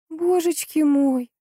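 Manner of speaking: high, slow frightened gasp of words; frightened exclamation. A narrator's reading. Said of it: "воскликнула Анна и испуганно". (испуганный возглас, высоко и протяжно)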